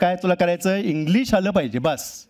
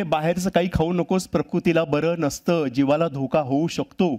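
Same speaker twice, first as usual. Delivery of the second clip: slow, lightly voiced mother warning her child; a fish mother's slow nagging warning; mock scolding mother; slower than usual. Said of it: "ओरडत असे". (मुलाला सावकाश बजावणारी आई)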